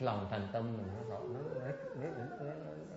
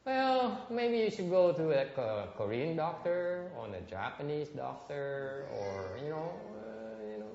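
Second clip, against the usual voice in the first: higher, mildly dismissive doctor; 4 semitones higher, slower than usual. Retold or imitated. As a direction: brush the patient off. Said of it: "the doctor says". (bác sĩ gạt đi, hơi khó chịu)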